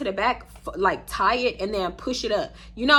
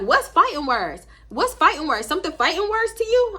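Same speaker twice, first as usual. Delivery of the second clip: mild mock confrontation; 7 semitones higher, 4 dB louder than usual. Imitating Nisha confronting.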